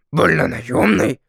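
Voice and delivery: slow, puzzled echo of the odd word; surprised. A narrator's reading. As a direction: drag out "Вольно-наёмный" in wonder. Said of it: "удивился дракон".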